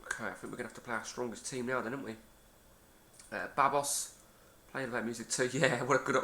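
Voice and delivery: talking with mouth full of pizza; mumbling through mouthfuls of pizza; wolfing down food. Real, not acted. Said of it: "so I'm eating some pizza at the same time".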